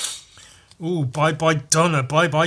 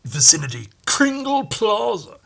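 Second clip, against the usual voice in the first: American Dredd accent; 5 semitones higher than usual. Shown as a demonstration. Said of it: "Dredd would talk like this".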